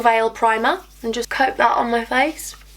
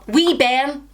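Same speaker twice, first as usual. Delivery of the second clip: half-hearted Scottish phrase; attempted Scottish accent; 2 semitones higher than usual. Shown as a demonstration. Vlogger proves she can't do accents, attempted Scottish. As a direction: have a poor go at a Scottish accent. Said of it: "Scottish and Welsh".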